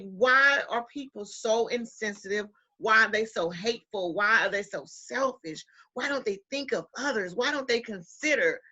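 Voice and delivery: mild mock ranting; teen remembering her angry rant, mildly voiced; retold rant. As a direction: rattle off the questions in a hint of fury. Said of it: "I went ballistic".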